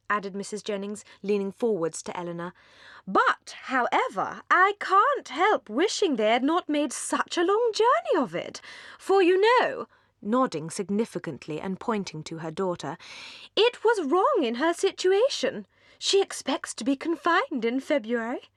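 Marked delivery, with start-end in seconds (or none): 3.1-9.9 higher, slow, confiding matron's voice; gossipy older lady. Acted. Mrs Jennings confides in Eleanor, fussy and gossipy. 13.6-18.5 put-on gossipy older lady. Mrs Jennings confides in Eleanor, fussy and gossipy.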